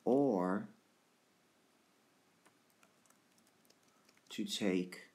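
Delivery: slow Shakespeare reading with long pauses; measured verse recitation. Acted. Teacher reads Hamlet's soliloquy to class, slow recitation.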